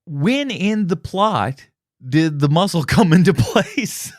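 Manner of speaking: slow, drawn-out mock film-character voice; put-on movie voice. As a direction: stretch each word out in a put-on voice. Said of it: "trying to do this voice the whole time".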